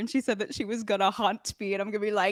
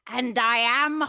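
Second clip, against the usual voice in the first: sounding like a witch. Speaking as a floating baby toward the witch hunter: sounding like the witch. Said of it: "I want to sound like the witch".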